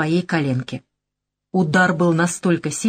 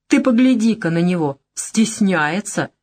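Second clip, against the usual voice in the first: mocking, hysterical. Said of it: "чуть истерично хохотнула".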